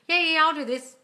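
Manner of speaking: airy pretend compliance; mock fob-off. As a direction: brush off the boss, cheekily. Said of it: "mock fobbing off at work".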